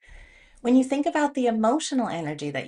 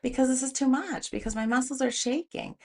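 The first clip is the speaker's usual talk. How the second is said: high, louder exasperated excuses; annoyed complaint; 5 semitones higher, 3 dB louder than usual. Retold or imitated. Complaining to the trainer that the weight is too heavy, annoyed. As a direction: whine the excuses, fed up. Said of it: "And I'm so annoyed".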